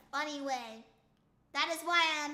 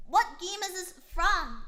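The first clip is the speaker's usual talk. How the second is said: louder incredulous repeat of the question; 2 semitones higher, 5 dB louder than usual. Real, not acted. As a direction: demand to know, disbelieving.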